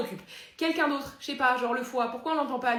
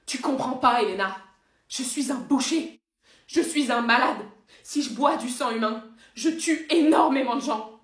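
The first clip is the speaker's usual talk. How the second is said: loud, anguished, overdramatic confession; slow down on the terrible words, in torment; tormented vampire; 6 dB louder than usual. Acted. Parodie de Stefan tourmenté.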